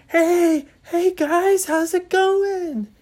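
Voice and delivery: loud, high greeting hollered down; calling out. Acted. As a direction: shout hello to friends far below. Ryan waves and calls down.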